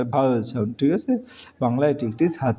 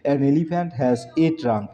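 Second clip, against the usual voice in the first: slow dictation; much slower than usual. Shown as a demonstration. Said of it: "কারণ elephant vowel sound".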